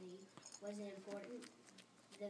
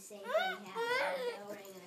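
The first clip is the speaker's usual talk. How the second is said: crying; 11 dB louder than usual. Real, not acted. Child reading, voice crying.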